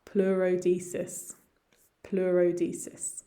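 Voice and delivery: "pleurodesis" carefully as ploo-ro-DEE-sis; pronunciation model. Shown as a demonstration. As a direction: model "pleurodesis" slowly for learners. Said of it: "managed to pronounce those all correctly".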